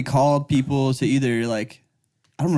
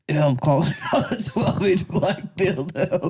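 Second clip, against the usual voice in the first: confident caller. Pretend. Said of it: "he's gotta have so much confidence".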